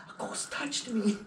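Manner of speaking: slow, laughing through the words; delighted, giggling it out slowly; a thrilled birthday guest laughing about the ghost. Retold or imitated.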